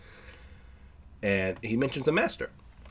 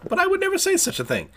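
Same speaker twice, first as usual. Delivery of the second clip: very high, louder squeal of protest; mock shocked denial; 4 dB louder than usual. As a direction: gasp it out in a much higher, louder squeak. Tokiyuki denies what he said.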